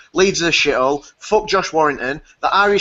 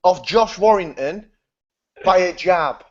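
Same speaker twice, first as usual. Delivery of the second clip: laughing; slower than usual. Real, not acted. Still laughing.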